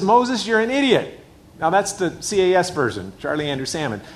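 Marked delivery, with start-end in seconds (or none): 0.0-1.2 slow, higher, blunt scolding; blunt father-in-law. Retold or imitated. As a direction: tell him straight, slowly and higher. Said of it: "and he says".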